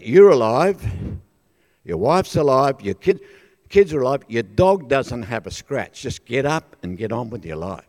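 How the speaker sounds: lightly voiced God, firm and emphatic. God tells stunned storm survivor to move on, firm reproof. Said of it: "I hear this voice of God say".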